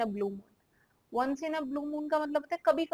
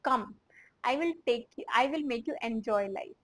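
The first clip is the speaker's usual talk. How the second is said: slow, carefully spaced translation; much slower than usual. Shown as a demonstration. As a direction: dictate it slowly. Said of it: "इसको हम English में कैसे बोलेंगे?".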